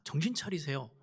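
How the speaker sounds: a hushed, firm warning; quiet rebuke. Retold or imitated. Peter quietly urging Jesus, soft firm rebuke. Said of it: "이런 이야기예요".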